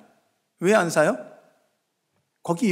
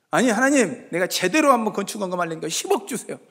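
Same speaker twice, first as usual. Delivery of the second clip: imitated prayer; 3 semitones higher than usual. Believer raising the request to God, insistent imitated prayer. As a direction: press God with an acted request. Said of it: "하나님 앞에 금식하고 기도했어요".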